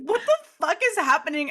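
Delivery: high-pitched imitation of baffled amusement; mock incredulous squeal; retold laughing disbelief. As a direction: quote a friend cracking up in bewilderment. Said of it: "she's laughing and, like, she's like".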